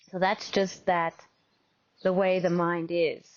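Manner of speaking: measured meditation guide with long pauses; guided meditation. Real, not acted. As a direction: gently guide them into open awareness.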